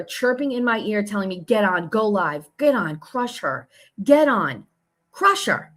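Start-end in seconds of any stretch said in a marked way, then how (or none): 1.4-5.7 mocking the pushy texter. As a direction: parrot her pushy orders back, mocking.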